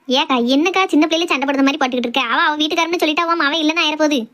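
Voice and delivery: ordinary talk, nothing marked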